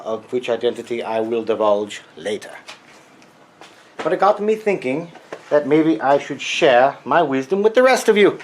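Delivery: put-on Freudian accent. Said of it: "this crazy Freudian accent".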